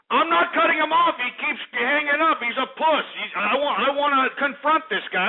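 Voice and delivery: high-pitched, exasperated protest; worked-up, defensive ranting; indignant rant. Real, not acted. Indignant rant denying he hung up.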